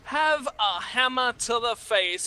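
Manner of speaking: slow, punchy taunt; voicing the player. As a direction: deliver it like a trash-talk line. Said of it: "Freemason says".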